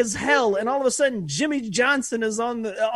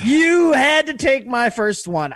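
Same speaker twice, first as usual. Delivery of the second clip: half-joking yell at his friend, voice cracking; mock outraged shout; 4 dB louder than usual. Cohost shouts at friend who stole his first pick, mock outrage. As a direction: fake fury, shout it like your best pick got stolen.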